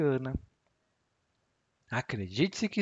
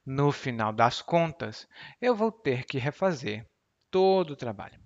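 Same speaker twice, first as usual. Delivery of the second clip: demo of the phrase. Shown as a demonstration. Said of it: "E você diz".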